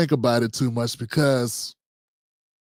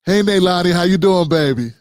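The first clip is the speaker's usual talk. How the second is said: louder, fond hello to a grandbaby; a warm grandpa greeting; 5 dB louder than usual. Retold or imitated. Grandpa greeting one granddaughter by name, fond and loud. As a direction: call out to her sweetly. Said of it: "greeting grandchild, retold".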